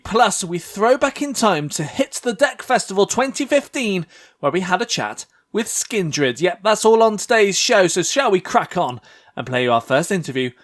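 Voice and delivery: confident podcast-intro presenter voice; radio voice. Real, not acted. Host welcoming listeners to the podcast, radio voice. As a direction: present it like radio, upbeat and assured. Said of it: "you had a radio voice then".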